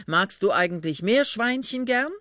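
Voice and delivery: speaking up. A narrator's reading. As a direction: ask it a little too audibly. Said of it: "sagte der Mann laut".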